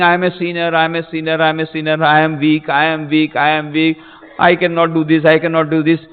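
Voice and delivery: level, repetitive mimicked chant; mock self-pitying litany. Preacher mimicking people who call themselves weak, droning litany. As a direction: run the excuses on in one unvarying tone. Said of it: "Always telling".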